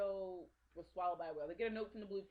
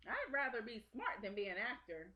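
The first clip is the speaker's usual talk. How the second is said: put-on higher, louder earnest puppet boy; Pinocchio; 6 semitones higher, 5 dB louder than usual. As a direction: imitate a resolute little boy, pitched up. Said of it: "and Pinocchio's like".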